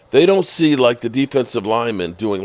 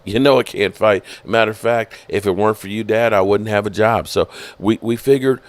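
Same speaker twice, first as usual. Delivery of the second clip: lightly voiced team executive, halting with uhs; team executive impression. Son of the team's owner explaining himself, lightly imitated executive voice. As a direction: imitate a hesitant executive addressing the fans. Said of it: "You know what I can do".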